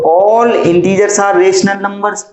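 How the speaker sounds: slow concluding statement; slow dictation. Shown as a demonstration. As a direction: lay the statement out slowly.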